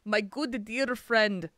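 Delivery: slow, savoring each word like a pompous ambassador; lightly voiced Centauri diplomat, very slow; a mild take on a weird, grand accent; Lando Mollari impression. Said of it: "all I do is wanna talk like, like Lando Mollari".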